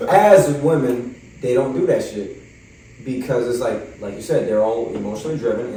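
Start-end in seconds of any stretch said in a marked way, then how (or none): 0.1-2.4 slow, laughing "As, as women", then "they don't" said plainly; laughing correction. Real, not acted. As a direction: correct yourself with a laugh, slowly. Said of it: "Little gender reveal party".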